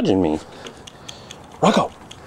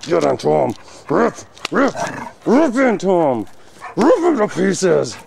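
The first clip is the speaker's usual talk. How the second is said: higher, slow playful urging; egging on; 6 semitones higher than usual. Real, not acted. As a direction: drag out the words to rile the dogs up. Egging dogs into play-fight.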